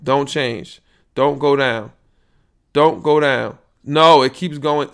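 loud, slow commands shouted at the machine; yelling at the meter. Real, not acted. Podcaster shouting at his recording levels, loud. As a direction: bark orders at the falling volume.

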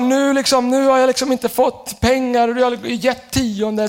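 high, drawn-out mock grievance; imitated complaint to God. Pastor imitating a tithing believer complaining to God, high mock plea. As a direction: complain upward, dragging the words. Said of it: "Tänk ofta vi ropar så här".

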